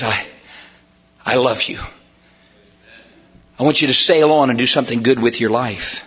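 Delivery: low, slightly hushed voice of God; tender reassurance. Acted. Preacher voicing God's mercy to us, tender and low. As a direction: say it gently, with pauses.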